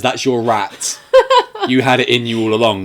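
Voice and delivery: laughing while repeating the farewell; amused retelling of a garbled line; laughing through the quote. Retold or imitated. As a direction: giggle as you quote it. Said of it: "what all I can make out is".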